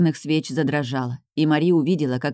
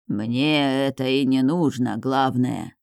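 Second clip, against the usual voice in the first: hoarse otherworldly voice; 2 semitones lower, slower than usual. Acted. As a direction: drag it out, rasping, from beyond. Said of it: "отозвался дух".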